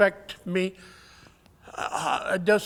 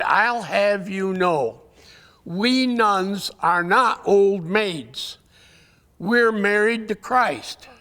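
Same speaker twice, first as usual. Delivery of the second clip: a hint of an offended nun putting him in his place; stern nun; slower than usual. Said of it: "her face became stern".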